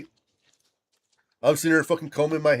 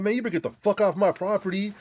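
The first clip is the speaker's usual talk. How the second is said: quick, tough-guy warning, a bit higher; acting tough; 6 semitones higher, faster than usual. To the stranger on his property, faking toughness. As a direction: put on a hard front to scare her off. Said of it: "being all hard and shit".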